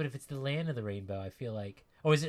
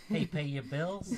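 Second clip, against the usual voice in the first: slow, higher joking voice; mock call-out; 5 semitones higher, slower than usual. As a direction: playfully put on a name-calling voice. Jokey imagined call to Bill.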